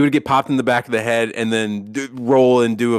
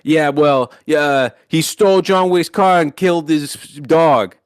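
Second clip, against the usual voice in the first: imitated movie line; 3 semitones higher, 4 dB louder than usual. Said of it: "gets the call from the dad and is like".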